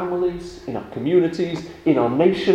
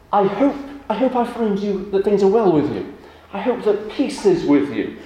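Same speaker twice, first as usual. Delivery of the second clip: kind wish; 6 semitones higher than usual. Retold or imitated. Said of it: "you're saying to them".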